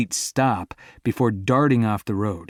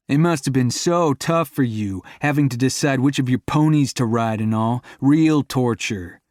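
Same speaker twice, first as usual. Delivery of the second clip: sarcastic; 3 semitones higher, 4 dB louder than usual. Acted. To his girlfriend about her childhood, sarcastic. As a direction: sneer at her privilege.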